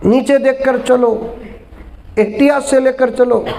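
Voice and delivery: slow, lightly voiced careful pleading; a hint of the anxious widower. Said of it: "आखिर तू कौन".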